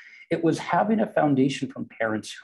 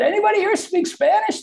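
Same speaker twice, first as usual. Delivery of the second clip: high, raised call across the office; yelled out; 5 dB louder than usual. Retold or imitated. Coworkers calling round the office for a Spanish speaker, yelled out. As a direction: call out a question to the whole room. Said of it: "They kinda yelled out one day".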